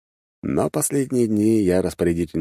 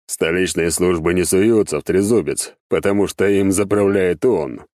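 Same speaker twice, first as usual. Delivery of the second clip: lightly voiced demon master; a boss explaining firmly to his servant; 4 dB louder than usual. (слегка обозначенный голос беса-начальника)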